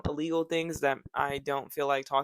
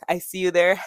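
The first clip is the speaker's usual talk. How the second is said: laughing; 10 dB louder than usual. Real, not acted. Teasing the still-watching viewer.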